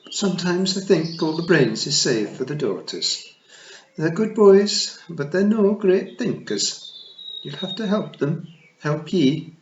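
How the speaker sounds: high, loud tiny pixie matriarch; a tiny Scots fairy queen, pitched high; Kelda voice. Acted. Kelda asks Tiffany's help.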